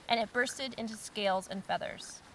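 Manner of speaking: lively storybook reading; story narration. Acted. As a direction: read it like a bedtime story for kids.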